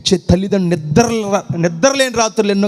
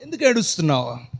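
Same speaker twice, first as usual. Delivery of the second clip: low, much softer, tender asking why; soft question; 6 semitones lower, 7 dB quieter than usual. Acted. God gently asking the weeper why they cry, softly. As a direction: drop to a gentle ask.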